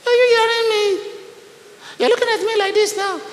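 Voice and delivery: high, loud preaching shout. Real, not acted. Pastor shouting at his congregation, high and loud.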